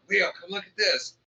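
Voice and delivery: lightly imitated high-pitched call; retold calling out. Faye calls Leo to look.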